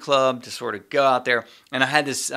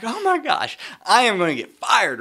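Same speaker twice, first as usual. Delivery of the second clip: mock panic; 8 semitones higher than usual. Panicking at the tee box.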